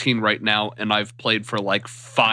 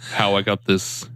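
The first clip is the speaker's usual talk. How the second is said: snot-filled voice. Real, not acted. Sick co-host joking to listeners about his voice, snot-filled. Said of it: "with all that snot-filled accent".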